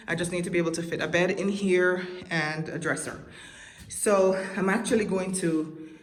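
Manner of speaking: breathing hard at altitude; heavy breathing. Real, not acted. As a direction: talk while short of breath. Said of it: "I'm sorry, I'm breathing hard".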